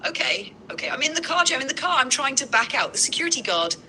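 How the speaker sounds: high, panicked shrieking rant; a meltdown shouted from the store aisle; frantic panic. Pretend. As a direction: spiral into hysteria, voice way up. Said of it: "and that fast you lost it?".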